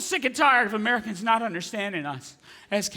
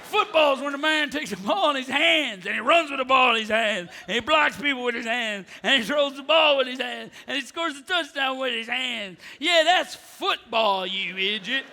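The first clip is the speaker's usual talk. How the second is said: ranting shout; 2 semitones higher than usual. Acted. Comic as American fan shouting at Europeans, ranting. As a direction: bellow it like a proud fan.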